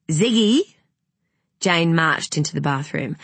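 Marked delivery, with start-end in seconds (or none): 0.1-0.8 calling out. A narrator's reading. Mother calling her son.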